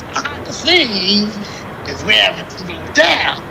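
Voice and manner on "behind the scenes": slow, lightly voiced old man; grandpa voice. Shown as a demonstration. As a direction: drag it out like a grandpa. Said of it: "in my grandpa voice".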